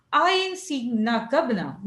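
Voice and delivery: slow, drawn-out dialect line, I ain't seeing na gubna; dialect quote. Shown as a demonstration. Teacher acting out a rural dialect sentence. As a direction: drawl I ain't seeing na gubna like a rustic speaker. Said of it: "sentences with the unusual grammar of the dialect".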